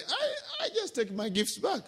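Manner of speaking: chuckling through the Brahmin's answer; laughing Brahmin. Retold or imitated. Teacher voicing the Brahmin, laughing. Brahmin admits taking gifts back.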